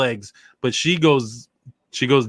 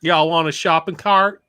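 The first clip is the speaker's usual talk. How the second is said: slow Southern drawl on a shopping cart; Southern accent; 2 semitones higher, slower than usual. Shown as a demonstration. Performing a Southern accent when asked by a friend. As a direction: lay on a Southern accent, slowly. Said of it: "let's hear your best Southern accent".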